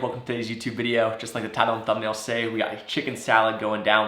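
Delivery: stuffy nose from a cold; nasal voice. Real, not acted. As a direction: speak through a blocked nose. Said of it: "apologize for the nasally voice".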